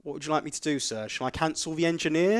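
mock customer-service courtesy, rising question; polite agent. Agent offering the customer a cancellation, mock polite.

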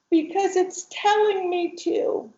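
put-on high, childlike explanation; little girl voice. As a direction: answer simply like a little girl. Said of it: "she's talking like this".

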